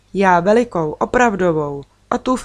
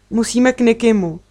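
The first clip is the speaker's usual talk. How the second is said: an urgent blurt, a bit higher and louder; 4 semitones higher, 3 dB louder than usual. Acted. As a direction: blurt it out before she even says hello. (vyhrkne naléhavě)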